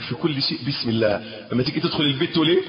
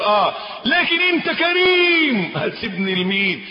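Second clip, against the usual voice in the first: pleading prayer; 3 semitones higher than usual. Pretend. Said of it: "كأنك بتقول".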